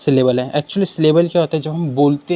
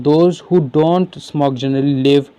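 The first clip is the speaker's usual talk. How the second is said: reading the question; much slower than usual. Acted. Reads exam question aloud.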